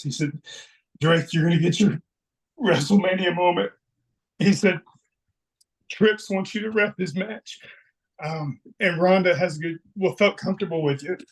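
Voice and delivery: choked-up retelling, pausing to hold it together; getting emotional. Real, not acted. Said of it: "I'm sorry for getting emo".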